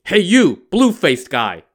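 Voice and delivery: loud high call to the stranger; shouting. A narrator's reading. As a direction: yell across at him. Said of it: "the monk shouted".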